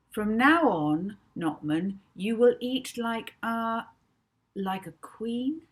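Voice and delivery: put-on a girl hypnotist giving firm orders; commanding voice. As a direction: lay down the law, drawing it out. Molly commands the hypnotised man.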